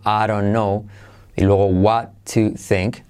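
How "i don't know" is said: "I don't know" with the D tapped like a soft R; soft-R linking. Shown as a demonstration. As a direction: link "I don't know" as "I ron know". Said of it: "se convierte de como R suave".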